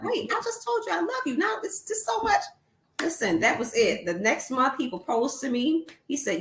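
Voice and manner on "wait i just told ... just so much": higher flustered quote; pitched up, a little overwhelmed; exasperated. Retold or imitated. Her flustered reply quoted.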